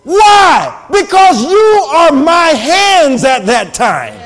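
forceful, stretched-out preaching; shouting preacher. Real, not acted. Preacher giving God's promise to givers, shouting. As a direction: drive each phrase home slowly and loudly. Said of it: "I'm shouting and screaming".

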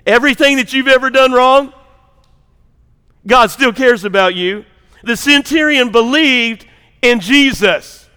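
emphatic, measured preacher delivery; forceful preaching. Real, not acted. Pastor declaring that the centurion just believed, forceful preaching. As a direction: drive each phrase home to the congregation.

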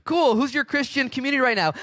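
high, loud probing questions; hammed-up high voice asking about his church; mock pastor's challenge. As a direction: poke at him with mock surprise. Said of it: "He's like".

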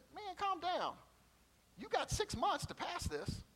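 high, easygoing clerk telling him to relax; laid-back desk clerk. Retold or imitated. Clerk at the exam desk calming the student, in a high, easygoing voice. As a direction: brush off his panic like a bored clerk.

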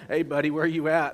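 retold calling out. Storyteller looking around for Tiger as trouble approaches, calling out. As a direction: re-enact hollering out to find your buddy.

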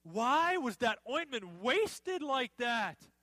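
slow, drawn-out mild indignation; mildly acted outrage, words stretched; indignant. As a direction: read it as an indignant onlooker's complaint. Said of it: "said to themselves indignantly".

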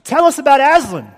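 put-on eager kids crying out in a high, loud English accent; hammed-up English accent, loud and high. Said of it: "my horrible English accent".

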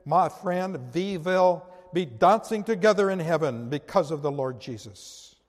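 voicing an old Dutch woman's accent, lightly; thick Dutch accent. Preacher quoting Corrie's greeting in a mild Dutch accent. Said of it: "announced in her thick Dutch accent".

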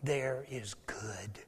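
slow, tender whispered assurance; gentle whisper. Acted. Jesus telling the Father about Peter, whisper. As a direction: breathe it softly to the Father. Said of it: "He says to the Father".

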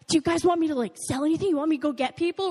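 hyped up. Retold or imitated. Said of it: "all hyped up".

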